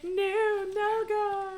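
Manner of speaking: high, loud no, no go; loud refusal. Real, not acted. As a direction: shut the idea down flat out, playfully loud. Refusing the raid call.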